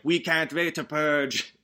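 drawn-out gleeful tourist voice; mock excited visitor, slow; eager tourist. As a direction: savour every word like a keen holidaymaker. Murder tourists arriving, eager to kill.

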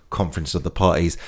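low, soft trailer voice on Conference of the Parties; movie trailer voice. Pretend. Comic teasing COP26 as a Star Wars film, trailer voice. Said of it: "That sounds like a new Star Wars film".

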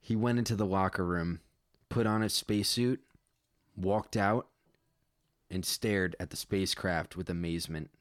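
measured read-aloud storytelling; story narration. A narrator's reading. Writer reading own space story to listeners, measured narration. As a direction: read it out plainly as prose.

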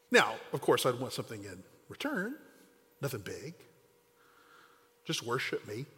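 understated sly tempter; sly devil. Acted. Devil slyly names his price.

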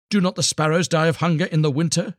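high, sharp retort; bitter wife. A narrator's reading. Wife retorting to her husband about sparrows, high and scornful. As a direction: throw it back at him scornfully. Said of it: "she asked".

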